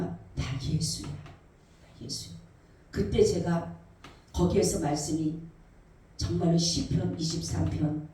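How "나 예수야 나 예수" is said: Jesus answering. Retold or imitated. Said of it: "그랬더니".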